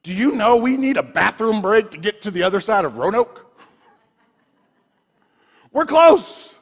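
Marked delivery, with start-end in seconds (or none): 1.9-6.5 put-on kids whining. Kids' impatience on camp trip.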